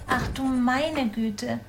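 lightly voiced mother hedgehog, a touch of alarm, sniffing nuff nuff; mild dismay with little sniffs; startled mother hedgehog. Mother hedgehog looking into the fridge, mildly startled. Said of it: "Rief Frau Igel erschrocken aus".

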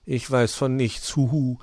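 a hint of owl playing innocent; mock innocent. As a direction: play dumb. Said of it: "stellte sich der Uhu unwissend".

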